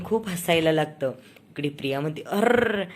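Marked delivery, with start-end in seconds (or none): 2.2-2.8 higher, louder acted cry of dismay; dismayed exclamation. A narrator's reading. Priya finds the baby has wet her, dismayed. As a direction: exclaim in mock dismay, pitched up.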